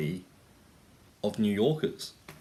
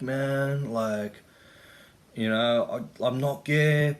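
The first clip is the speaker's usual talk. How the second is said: put-on Hispanic accent; 2 semitones higher, slower than usual. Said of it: "trying to do my, um, Hispanic accent".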